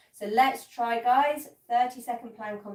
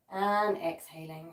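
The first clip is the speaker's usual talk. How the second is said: slow exhale cue; 3 semitones lower, slower than usual. Shown as a demonstration. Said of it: "Let's take four deep breaths".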